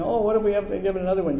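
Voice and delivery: quick, lightly voiced worried young woman; mock fretting daughter. Pastor mimicking his worried daughter, quick and anxious. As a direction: rattle it off like a fussing kid.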